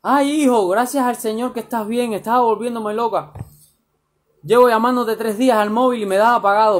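lightly voiced mother pouring out her relief; relieved mother. Mother greeting her missing son, mildly voiced relief. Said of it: "salió de la cocina asustada".

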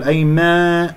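أيما with the long a spoiled; drawn, wrongly coloured a in أيما; mistaken alef sound. Shown as a demonstration. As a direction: show the faulty alef at the end of أيما. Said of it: "لا تقل صوت الألف".

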